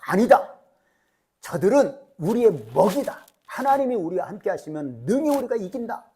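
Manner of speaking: rally a frightened crowd; bold persuading. Acted.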